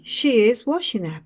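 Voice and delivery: model sentence for repeating. Shown as a demonstration. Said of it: "Repeat after me".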